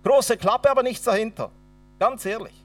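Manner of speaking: taunting God. Retold or imitated. Mocking God in anger.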